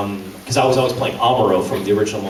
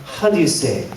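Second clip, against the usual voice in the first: German accent; 5 semitones higher than usual. Shown as a demonstration. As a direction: sneer it like a German cartoon villain. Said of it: "that's, like, how I auditioned for it".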